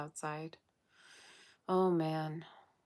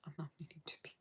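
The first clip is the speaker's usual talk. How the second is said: sleepy, yawning voice; 12 dB quieter, much faster than usual. Real, not acted. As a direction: talk through a yawn. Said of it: "yawning and stuff".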